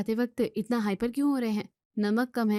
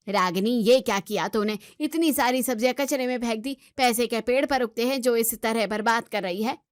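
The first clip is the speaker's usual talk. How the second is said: scolding mother-in-law. Acted. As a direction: tell off the daughter-in-law for wasting food. Mother-in-law scolds over vegetables.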